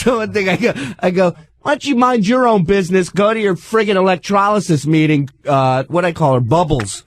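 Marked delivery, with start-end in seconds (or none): 1.6-5.3 higher, irritated retort; retold angry comeback. Zero to ninety at the hairy-armed woman, retold irritation. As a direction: fire back a mock-angry insult, pitched up.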